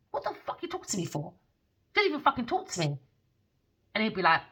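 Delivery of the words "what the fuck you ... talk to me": retold irritated brush-off. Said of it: "And I'll be like".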